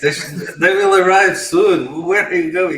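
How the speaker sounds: loud calling after. Acted. Doctor calls after patient.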